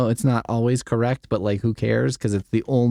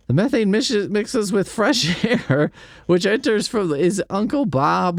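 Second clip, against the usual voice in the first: mock-incredulous reading; 9 semitones higher than usual. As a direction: read it like you can't believe it. Mock-reading dull engineering text.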